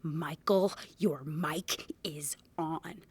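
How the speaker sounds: slow, hushed warning, almost whispered; imitating a stage manager, softly and very slowly. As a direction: whisper it out word by word like a discreet announcement. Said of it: "stage manager get back on the mic".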